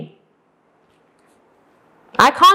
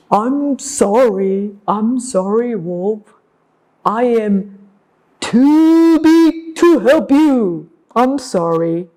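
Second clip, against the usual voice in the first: slow, ponderous cow voice; slow, regretful cow; apologetic big cow; 2 semitones lower than usual. Acted. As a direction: refuse slowly, drawing out the words. Cow refuses wolf in story.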